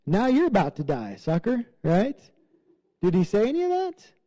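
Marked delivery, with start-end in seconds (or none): 0.0-1.7 higher and louder, a hammed-up gloat; mock gloating taunt. Paul to the jailer, imagined taunting, hammed-up gloat. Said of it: "Or, you know".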